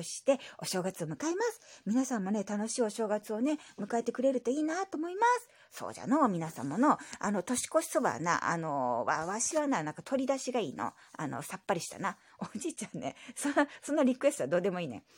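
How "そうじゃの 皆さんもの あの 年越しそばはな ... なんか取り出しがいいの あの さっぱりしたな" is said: lightly voiced old grandpa; grumbly old grandpa reply; old man voice. Grandpa character voice.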